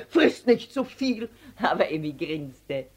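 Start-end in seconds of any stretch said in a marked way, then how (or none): 0.1-1.3 slow, mild motherly scolding; a hint of a stern mother. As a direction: tell the child off, lightly. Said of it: "schimpfte die Mutter".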